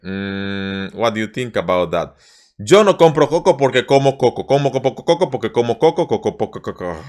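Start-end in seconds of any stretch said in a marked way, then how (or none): 2.6-7.0 rushed, words tangle and fade; fast tongue twister stumbling. Shown as a demonstration. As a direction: trip over the cocos. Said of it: "let's try again".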